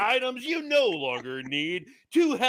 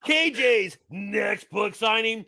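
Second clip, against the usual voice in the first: put-on upbeat promo in a light British accent; 2 semitones higher than usual. Producer hypes the signing in a British accent. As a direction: announce the book signing in a mild British accent. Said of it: "I like that you went with the British voice".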